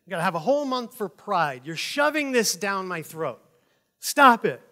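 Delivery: imitating a ranting American, ending in a loud Stop it; mock rant. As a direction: someone complaining about pride month, mock ranting. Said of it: "they'll rant and rave".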